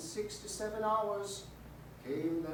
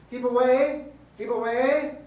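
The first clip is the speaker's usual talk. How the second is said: warning shout; 7 semitones higher, 11 dB louder than usual. Retold or imitated. Ghostly figure gesturing a warning.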